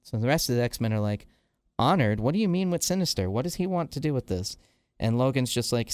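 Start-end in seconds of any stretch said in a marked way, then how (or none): 1.8-4.6 retold startled questions, higher pitch; mildly incredulous, quick and raised; startled questioning. X-Men react to Magneto's secret deal, startled questioning. Team reacts to shocking revelation.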